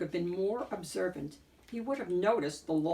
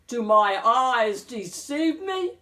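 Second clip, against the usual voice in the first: gasped; 4 semitones higher, 8 dB louder, slower than usual. A narrator's reading. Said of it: "gasped the wolf".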